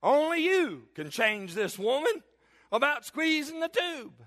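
a lightly voiced desperate prayer; mock prayer. Husband begging the Lord to fix his wife, mock-pleading. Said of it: "I said to the Lord".

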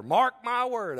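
emphatic recalled declaration; loud retold vow. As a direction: retell a firm vow out loud. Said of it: "Wish I wouldn't have marked it so loud".

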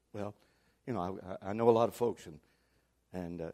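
soft, halting imitation of a gossip; hesitant hedging. Church member dodging the preacher's question, quiet and hesitant. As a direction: stall quietly, reluctant to name anyone.

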